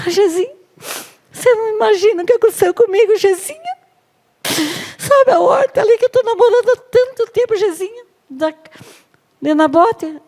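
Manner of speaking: put-on very high childish pleading voice; whiny Ahab. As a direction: whine and tattle like a spoiled child. Ahab whining to Jezebel.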